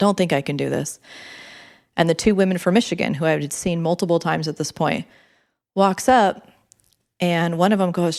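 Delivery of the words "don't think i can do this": acted, hysterical, panicked sobbing. Retelling a panic attack near the top of a climb, reenacting hysterical crying. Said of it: "I'm like hysterically crying".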